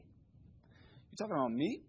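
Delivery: suddenly small and quiet after the shouting; timid, scared aside. Retold or imitated. Scared youth pleading with God, small timid voice. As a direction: shrink into a hesitant, mildly frightened plea. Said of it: "I'm scared of him".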